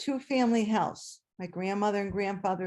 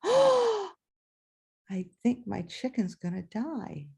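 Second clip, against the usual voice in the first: put-on frightened child; much slower than usual. Child sees chicken bleeding.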